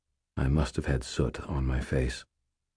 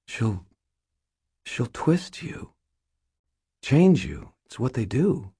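put-on high-pitched, halting, distressed young friend; Molly, anxious warning; 8 semitones higher than usual. Molly warning Harry that Mab will change him, high and anxious. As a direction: plead haltingly in a much higher voice.

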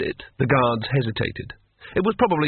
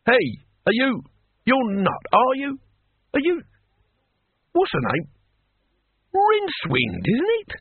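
excited; 12 semitones higher than usual. Acted. Excited old man recognizing someone.

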